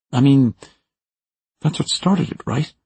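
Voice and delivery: high, frightened justifying; fearful rising voice. A narrator's reading. Maura admitting what started the shooting, high and fearful. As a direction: voice climbing high with regret. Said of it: "Maura's voice goes up an octave now".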